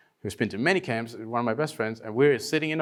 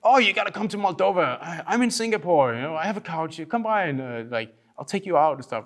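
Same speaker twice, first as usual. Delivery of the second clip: eager invitation; 4 semitones higher, faster than usual. Retold or imitated. Eager strangers inviting him over.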